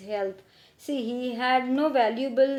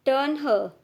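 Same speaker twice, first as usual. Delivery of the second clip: louder call of a pretend captain; boat captain's shout; 3 semitones higher, 5 dB louder than usual. Boy playing captain calls to his crew, loud. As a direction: call out the order like a riverboat captain. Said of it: "he shouted".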